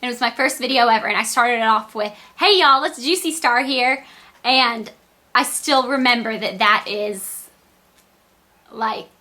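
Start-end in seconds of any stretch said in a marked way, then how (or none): 2.4-4.0 lightly imitated Southern greeting; a hint of Southern twang on the hello; Southern accent. YouTuber quoting her first video's opening, light Southern accent. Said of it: "I have a really thick Southern accent".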